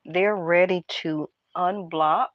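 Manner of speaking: unvoiced gossipy whisper; tarot reader whispering the reveal. Real, not acted. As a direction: breathe it out like a secret. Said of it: "Why am I whispering?".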